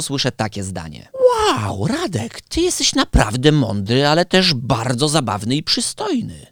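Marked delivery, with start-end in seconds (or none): 1.6-6.5 mock-impressed, high-pitched wow; hammed-up flattery from a fan; gushing admirer. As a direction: play an admirer, lightly gushing. Voices an admirer's gushing compliment.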